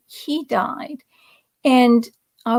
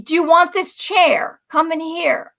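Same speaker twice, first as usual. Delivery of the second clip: raised-pitch retold summons; imitated calling out; 4 semitones higher than usual. Cousin calling niece to take a chair, imitated call. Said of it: "I hear my cousin Jimmy call".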